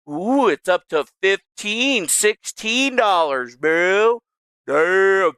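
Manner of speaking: slow, drawn-out impressed ooh. Real, not acted. Streamer checking Trump coin price, slow impressed awe. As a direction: savour the number with awe.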